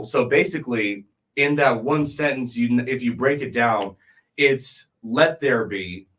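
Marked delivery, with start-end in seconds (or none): 5.0-6.1 measured, deliberate "Let there be"; slow, stressed phrase. Shown as a demonstration. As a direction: Let there be drawn out slowly. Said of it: "meaning that I'm giving".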